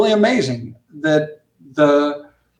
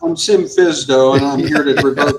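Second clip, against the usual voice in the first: mock inspector; 4 semitones lower than usual. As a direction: announce yourself as a pretend inspector. Jokes as a revoking inspector.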